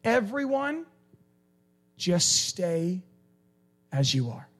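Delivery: high shouted whoa easing down to calm; Paul shouting stop. Retold or imitated. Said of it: "Paul's like".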